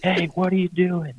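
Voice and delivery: high, shrill-pitched mock yell from far off; retold angry scream. Neighbour lady yells at hunters by her pond, high mock scream. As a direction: imitate a neighbour lady yelling across the street. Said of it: "I hear this lady just screaming".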